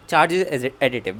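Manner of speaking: slow, spaced dictation pace; teacher dictating property; dictating slowly. Shown as a demonstration. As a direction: read it out slowly for notes. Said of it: "slow dictation of property".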